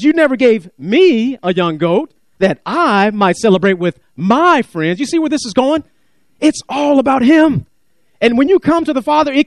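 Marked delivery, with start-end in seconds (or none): 0.0-5.0 slow whiny complaint. Retold or imitated. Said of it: "And he says".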